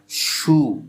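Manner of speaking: slow model of शू with a sustained sh; fricative demo. Shown as a demonstration. Teacher showing students a fricative sound, शू said slowly and distinctly. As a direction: draw out शू for learners to hear the fricative. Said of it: "ये इस किस्म के sound फ्राइकेटिव".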